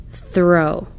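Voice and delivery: quick plain Throw; read quickly. Shown as a demonstration. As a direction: Throw said quickly as one whole word. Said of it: "The O W word should be read like this".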